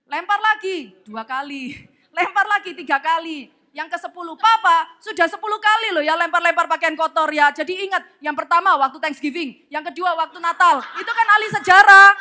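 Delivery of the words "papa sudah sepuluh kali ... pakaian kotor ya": raised-voice mock telling-off; acted exasperated reprimand; scolding wife. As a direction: nag a husband who has done it too often. Wife scolds husband about clothes.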